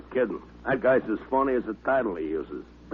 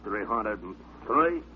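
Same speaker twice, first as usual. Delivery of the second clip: slow, quieter count with effort; straining through push-ups; 4 dB quieter, slower than usual. Acted. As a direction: squeeze out the next number mid-rep. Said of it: "Seymour did his push-ups".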